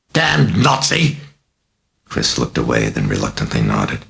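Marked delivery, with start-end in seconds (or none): 0.1-1.2 very high, slow, hoarse demonic shriek; mad shriek. A narrator's reading. Possessed girl shrieking at the butler, demonic screech. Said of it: "shrieked the hoarse, mad voice".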